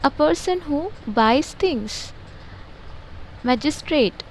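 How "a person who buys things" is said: slow dictation. Shown as a demonstration. Teacher reads definitions slowly.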